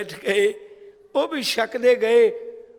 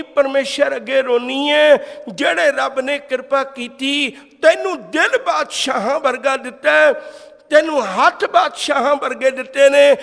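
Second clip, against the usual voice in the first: grandmother's raised, acted plea to God; impassioned lament; 4 semitones higher, 4 dB louder than usual. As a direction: cry out the complaint with rising fervour, without sobbing. Grandmother's tearful complaint to God. (ਰੱਬ ਅੱਗੇ ਨਾਨੀ ਦੀ ਜੋਸ਼ੀਲੀ ਫ਼ਰਿਆਦ)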